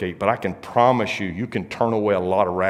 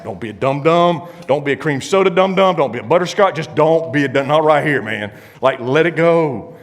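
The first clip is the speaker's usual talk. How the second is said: teasing scold; 4 semitones higher, 5 dB louder than usual. Retold or imitated. Scolding buddy to back off.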